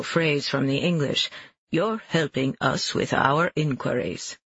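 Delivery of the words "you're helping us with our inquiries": slow, clumsy fake British accent; bad British accent. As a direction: put on a poor British accent. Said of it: "He's nearly as bad at British accents".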